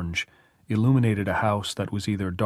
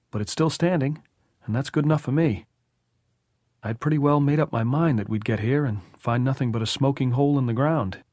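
higher-pitched, lively character voice; relieved homeowner, pitched up; Tom, relieved and chatty; 5 semitones higher than usual. Acted. Narrator voices Tom in dialogue.

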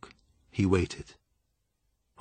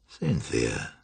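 very low, softened summons; commanding Julian; 12 semitones lower, 5 dB quieter than usual. A narrator's reading. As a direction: draw the name out low. Julian commands the frightened woman.

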